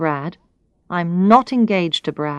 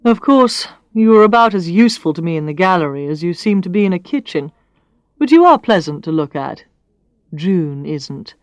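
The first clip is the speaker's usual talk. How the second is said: a lightly voiced blunt boss, teasing; Brad's voice; 4 dB louder than usual. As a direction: read the man's lines with a touch of bluntness. Man voiced in a read story.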